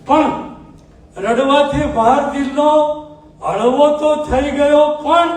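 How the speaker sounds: measured, sung-through poetic recital with pauses between half-lines; ghazal recitation. Acted. Poet reciting his ghazal to a mushaira audience, declaiming.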